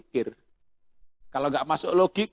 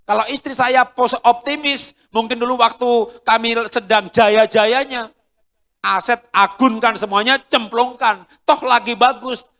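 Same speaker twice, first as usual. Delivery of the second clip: optimistic wife; 8 semitones higher, 9 dB louder than usual. Pretend. Imagining optimistic wife, reckless.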